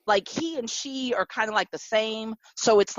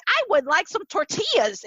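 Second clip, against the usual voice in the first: high-pitched demo of flat gringo Spanish; flat American-accented Spanish; 8 semitones higher than usual. Shown as a demonstration. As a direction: say tortillas like an American struggling with Spanish. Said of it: "my Spanish is so flat".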